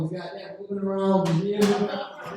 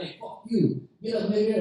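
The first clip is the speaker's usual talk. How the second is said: a bit higher, tough-guy act in a thin voice; high-pitched drunk; 3 semitones higher than usual. Retold or imitated. Drunk Russian insulting the comic in a thin high voice. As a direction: try to sound hard but come out high. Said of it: "his voice was so high pitched".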